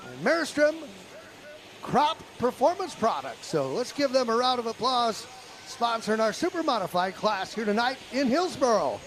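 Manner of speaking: arena PA sponsor plug; sponsor read. Real, not acted. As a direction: read the sponsor shoutout to the crowd.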